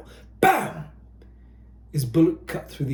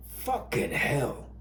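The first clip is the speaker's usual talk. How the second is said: muttered curse; 2 semitones lower, 8 dB quieter, slower than usual. Acted. Sergeant swearing quietly as the enemy advances, slow mutter. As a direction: swear softly to yourself as they keep coming. Soldier cursing under fire.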